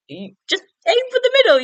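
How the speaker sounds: very high-pitched imitation; high, strained helpful advice; mock urgent coaching. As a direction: imitate a friend anxiously steering the driver. Acting out friend nervously coaching driver.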